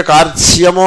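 కార్త్స్యము with the n sound missing; faulty కార్త్స్యము, r-t-s-y only; n dropped. Shown as a demonstration. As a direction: say కార్త్స్యము as kaart-syamu, skipping n. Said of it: "నా పోయింది".

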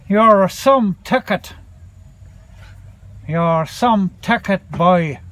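lightly put-on Irish lilt; bad Irish accent. Owner teasing his dog Bobby, bad Irish accent. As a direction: have a rough go at an Irish accent. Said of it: "Excuse a very bad Irish accent".

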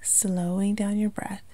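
calm meditation delivery with long pauses; unhurried, lightly hushed guiding into relaxation; guided meditation. Acted. Yoga instructor guiding listeners to relax the body, calm meditation voice.

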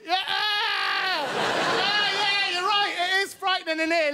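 high, hammed-up scared cries; faked fright. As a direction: pretend the place scared you. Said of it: "I'm going".

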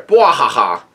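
read-out belly laugh; a lightly acted "bwahaha" guffaw; spelled-out laugh, played as a character; mock hearty laugh. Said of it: "And Garp says".

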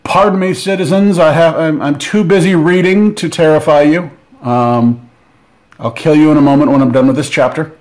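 politely brushing off victims to finish his chapter; lightly voiced creepy reader. Unboxer voicing a miniature of a reading monster, lightly mock-polite.

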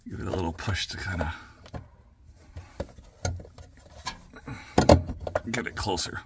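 straining while working; strained words under effort; effort grunt. Real, not acted. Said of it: "Sorry about my grunting".

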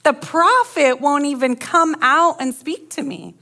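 hurt commander whining that the prophet snubbed him; wounded pride. Retold or imitated. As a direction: sulk like a snubbed VIP, half-joking. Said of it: "he's like".

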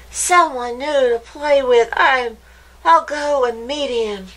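can't wait to meet a new friend; excited. A narrator's reading. Hopper rushing off to meet Spring, excited. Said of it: "said Hopper excitedly".

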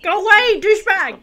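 loud playful jeer at a villain; mock yelling. Real, not acted. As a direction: shoo him off, half joking. Yelling at a character on screen.

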